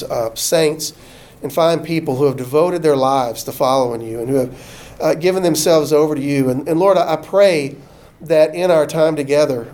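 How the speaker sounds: a pastor praying the church out; closing prayer. Acted. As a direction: pray over the congregation gently.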